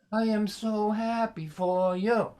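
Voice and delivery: slow sarcastic so happy; dripping sarcasm. Retold or imitated. Comic replaying dad's sarcastic line. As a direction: savor the fake joy. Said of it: "dripping with sarcasm".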